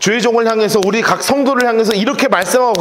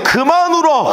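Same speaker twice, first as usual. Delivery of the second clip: God's comfort; 7 semitones higher, slower than usual. Acted. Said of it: "그 뜻입니다".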